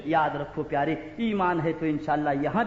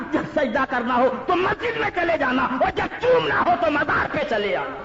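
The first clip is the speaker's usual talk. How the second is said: loud, higher-pitched sermon tirade; fiery preaching rebuke; 6 semitones higher, 5 dB louder than usual. Acted. Devotee rebuking his accuser at the shrine, fiery. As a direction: drive each clause home, building to a shouted climax.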